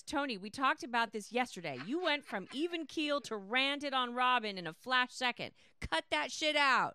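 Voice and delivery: mock telling-off, rising to a loud finish; retold scolding. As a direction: pass on a reprimand with relish. Reading out a scolding message.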